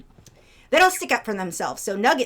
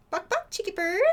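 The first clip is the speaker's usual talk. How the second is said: high squeaky line for the bird to copy; bird-teaching voice; 9 semitones higher, 5 dB quieter than usual. Shown as a demonstration. Teaching her cockatiel a phrase in a squeaky high voice. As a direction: say it like a parrot would. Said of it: "There he goes".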